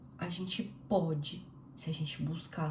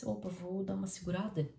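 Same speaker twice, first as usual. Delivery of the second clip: self-restraint; 2 semitones higher than usual. Retold or imitated. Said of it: "Pensar um pouquinho antes".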